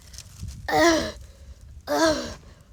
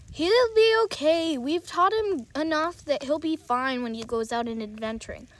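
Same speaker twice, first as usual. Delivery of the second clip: a hint of a lower, fatherly voice; a father giving kind orders, voiced a bit lower; lightly voiced dad; 5 semitones lower than usual. Dad reminding his son to be home before dark, lightly lowered.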